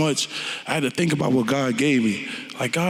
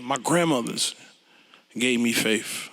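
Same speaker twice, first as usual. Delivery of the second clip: ordinary talk, nothing marked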